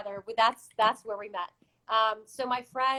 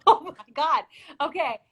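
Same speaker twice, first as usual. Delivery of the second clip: a bright, louder, higher "oh my God"; excited gasp; 5 semitones higher, 5 dB louder than usual. Retold or imitated. Retelling to the host how the cast reacted, excited. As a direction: retell the thrill of hearing her sing.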